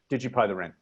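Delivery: level pitch, no rise or fall on "Did you pay the rent?"; flat tune. Shown as a demonstration. Teacher demoing a flat, unchanging inflection. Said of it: "no change in the inflection whatsoever".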